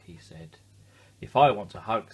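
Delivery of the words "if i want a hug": wise owl voice. A narrator's reading. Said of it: "said a wise owl".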